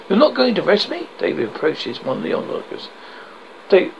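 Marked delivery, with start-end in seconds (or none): 0.1-1.1 disbelief. Acted. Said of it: "David, disbelief".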